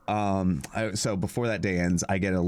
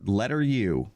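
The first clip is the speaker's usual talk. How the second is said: mock reading garbled email; slower than usual. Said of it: "read you the response I got".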